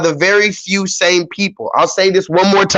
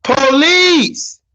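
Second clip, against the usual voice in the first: mock cry for police; 8 semitones higher, much slower than usual. Streamer mimicking the yelling to answer chat, mock cry for help. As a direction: echo the yelling in a playful, higher mock cry. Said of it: "Oh, who's yelling?".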